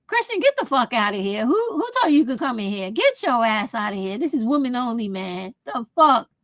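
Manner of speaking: sassy retold telling-off; playful mock telling-off of a boy; mock angry girl. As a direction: shoo him out like a bossy schoolgirl. Retold throwing a guy out.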